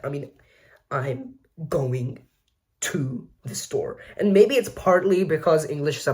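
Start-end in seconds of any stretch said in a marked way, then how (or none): 0.9-4.0 "I'm going", pause, then a slow "to the store"; broken-up demo of "I'm going to the store", trailing softer; stress-timed vowels. Shown as a demonstration. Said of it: "vowels are just kinda all over the place".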